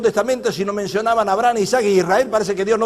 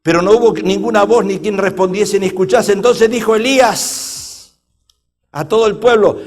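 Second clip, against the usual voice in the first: firm, projected preacher's reading; forceful scripture reading; 6 dB louder than usual. A narrator's reading. Preacher rereading the Elijah passage, forceful declamation. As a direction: declaim the verse to the room.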